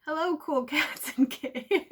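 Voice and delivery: high, loud singsong greeting; hammed-up, laughing catchphrase hello; mock email greeting. Imitating boss's opening of work emails, hammed-up greeting. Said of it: "my boss starts all our emails with".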